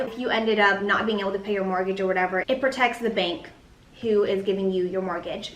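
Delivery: talking with gum in the mouth; chewing gum. Real, not acted. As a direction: speak around a piece of gum. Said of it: "I have gum in my mouth".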